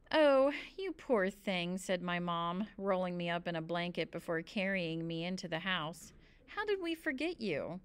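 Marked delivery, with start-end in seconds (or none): 0.1-1.8 slow, higher, lightly voiced sympathy; sympathetic mother. A narrator's reading. Mom rolls child in a blanket, gently sympathetic. 6.5-7.8 higher, lightly voiced concern; a touch of motherly dismay, pitch lifted; sympathetic mother. A narrator's reading. Mom carries child into the house, gently sympathetic.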